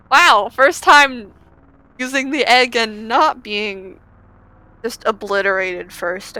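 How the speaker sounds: loud, slow, stretched-out wow; amazed. Real, not acted. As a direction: marvel at it, dragging the words. Amazed at new ending.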